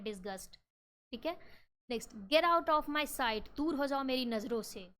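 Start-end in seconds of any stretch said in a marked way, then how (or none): 2.1-4.9 a teacher acting out anger; angry command. Shown as a demonstration. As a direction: order them away in anger. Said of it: "ये आप गुस्से में बोल रहे हो".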